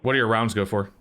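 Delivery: disguised voice through a voice changer; masked caller voice. Real, not acted. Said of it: "I am using a voice changer".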